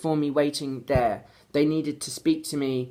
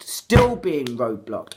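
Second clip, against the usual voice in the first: angry; 3 semitones lower, 4 dB louder, much slower than usual. Real, not acted. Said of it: "pissed off now".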